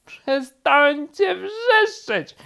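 very high, slow, loud scream; drawn-out, exasperated screech; furious shriek. A narrator's reading. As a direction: shriek it, dragging out the words. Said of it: "wrzasnął królik".

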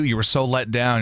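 usual speaking voice

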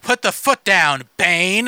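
slow, deliberate order; commanding Poison Ivy. Retold or imitated. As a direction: give the order slowly, like to a pet. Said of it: "it's just her like".

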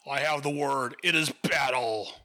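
lightly voiced booming warrior; solemn declaring, lightly acted; a hint of Orion's voice. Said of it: "Orion from the New Gods appears".

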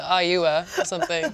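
ordinary talk

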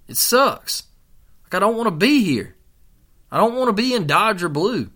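high, pleading gripe voiced for someone else; miserable complaint. Sports fan voicing an unhappy player on the bench, miserable complaint. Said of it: "he looks miserable".

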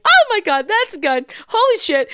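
high, loud alarmed outburst; re-enacted panic. Bystander spotting a gun, acted-out panic.

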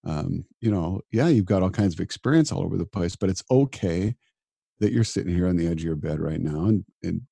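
gentle, reassuring self-talk; kind inner voice. Retold or imitated. Doctor comforting himself at night, reassuring and kind. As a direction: soothe yourself like a friend would. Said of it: "show up with kindness towards myself".

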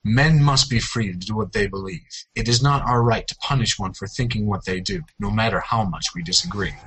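movie trailer voice. Pretend. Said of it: "read them out loud in an epic voice".

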